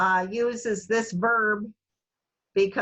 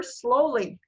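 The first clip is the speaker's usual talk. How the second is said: slow, drawn-out word; 2 semitones higher than usual. Shown as a demonstration. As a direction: say "slowly" slowly and deliberately. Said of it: "they're gonna say it more slowly".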